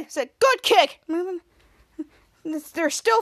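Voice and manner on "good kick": short, high, loud approval; retold cheer. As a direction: cheer as the watching hero.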